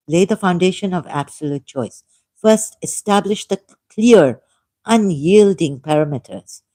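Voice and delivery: emphatic, measured read-out of a prepared text; reading aloud. Acted. Laying out a debate argument for listeners, emphatic reading.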